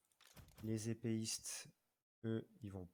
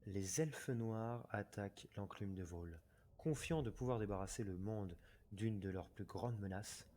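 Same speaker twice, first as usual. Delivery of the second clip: story narration; faster than usual. Acted. Lit le texte de la bataille.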